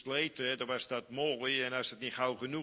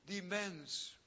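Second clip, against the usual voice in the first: shocked disgust; 10 semitones higher than usual. Retold or imitated. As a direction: cry out in horror at her filth. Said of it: "dan denk ik". (vol afschuw uitgeroepen, hoog en luid)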